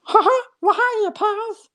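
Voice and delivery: high helium Mickey Mouse impression. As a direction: chirp it like Mickey greeting a pal. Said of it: "somebody else that talks high".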